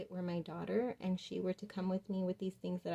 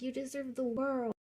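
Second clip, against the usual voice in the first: a hint of a little girl, higher, with conviction; lightly voiced daughter; 6 semitones higher than usual. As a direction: lightly mimic the daughter's earnest reassurance. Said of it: "she said it with such conviction".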